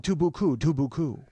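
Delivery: a touch of a war-movie veteran; lightly voiced veteran. Imitating the backyard customer answering the delivery, lightly voiced veteran.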